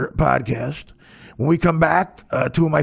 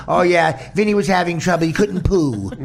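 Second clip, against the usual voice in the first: doggy voice; 4 semitones higher, 3 dB louder than usual. Retold or imitated. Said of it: "And he goes".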